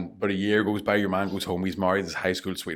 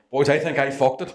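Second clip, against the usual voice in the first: higher, louder call from the doorway; sheepish punchline; 6 semitones higher, 4 dB louder than usual. Acted. Third guy entering the pub admitting his mistake, louder. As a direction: announce the disaster to the boys.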